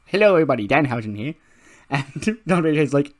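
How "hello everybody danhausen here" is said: loud, raised theatrical greeting; Danhausen. Acted. Danhausen introducing himself to everybody, loud theatrical character voice. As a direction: announce yourself in a showy character voice. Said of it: "after doing the Danhausen voice".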